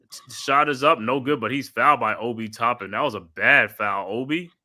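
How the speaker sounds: steady broadcast play-by-play, calling each pass. Acted. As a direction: call the game like a TV announcer. Live play-by-play call.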